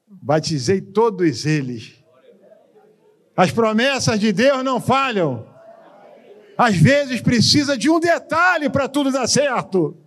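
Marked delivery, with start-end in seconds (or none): 3.4-10.0 higher, slow, ringing preacher's call; fervent slow proclamation; preaching at full force. Acted. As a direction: proclaim it slowly to the whole church. Preaching the moral.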